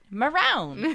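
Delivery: Maroon pronounced as the English color. Acted. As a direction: say "Maroon" with an English accent, laughing. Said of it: "I want it to sound like a fucking color".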